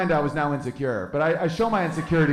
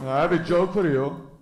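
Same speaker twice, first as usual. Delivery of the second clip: put-on French accent with pushed-out lips; lightly caricatured French accent; mock French accent. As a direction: imitate a French guy offering a joke. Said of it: "that's how they do their lips".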